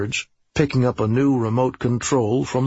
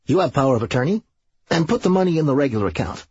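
slightly raised, quickening instructions; offhand Serge; 4 semitones higher, much faster than usual. Acted. Serge tells his lawyer to handle money, offhand. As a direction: rattle off the business briskly.

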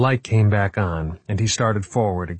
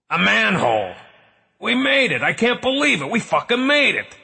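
high joyful shouting; overjoyed shouting; 13 semitones higher than usual. Acted. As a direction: yell it out in disbelief. Escape found, overjoyed.

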